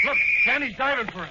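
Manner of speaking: loud, high cry of excitement; excited shout. Acted. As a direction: point it out with a thrill. Watching the chase excitedly.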